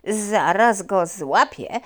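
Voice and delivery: lightly voiced puppy. Puppy's thought.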